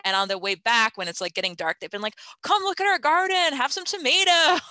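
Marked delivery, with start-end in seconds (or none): 2.4-4.6 high-pitched imitation of children calling out; retold eager kids. Kids to park friends as night falls, eager retold invitation.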